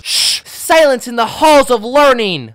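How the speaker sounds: high, loud, slow shushing decree; prissy hall monitor. Retold or imitated. Kindergartner shushing classmates in the hallway, high and loud. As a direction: hush the class like a librarian. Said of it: "I would go".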